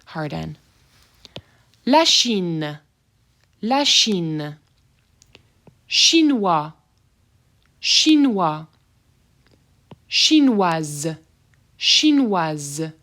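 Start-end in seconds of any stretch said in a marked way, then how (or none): 1.9-12.9 Chinois ending open, chinoise ending in a buzzing Z; French pronunciation. Shown as a demonstration. Teacher modeling S as Z, careful French. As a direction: contrast Chinois and chinoise clearly. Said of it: "I'm gonna say that S as a Z sound".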